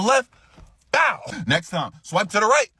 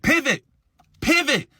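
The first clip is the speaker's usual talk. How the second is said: coaching call; 9 semitones higher than usual. Retold or imitated. Coaching sister from the side.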